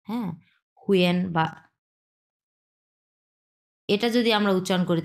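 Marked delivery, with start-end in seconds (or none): 0.8-1.2 হুয়েন with u gliding into en; model pronunciation. Shown as a demonstration. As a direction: sound the e clearly in হুয়েন. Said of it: "এটাকে আমরা উচ্চারণ করব". (স্পষ্ট এ-ধ্বনি দিয়ে হুয়েন)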